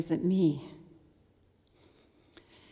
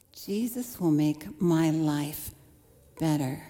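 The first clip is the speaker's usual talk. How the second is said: slow, wry repeat; 4 semitones lower, slower than usual. Shown as a demonstration. Preacher looking back on her naive hope, slow and wry. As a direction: lower and slow, each word weighed. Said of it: "That's what I expected".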